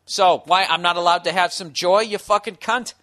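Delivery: loud, furious profane outburst; swearing tirade. Real, not acted. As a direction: rage at the critics, shouting. Heated rant at imagined critics.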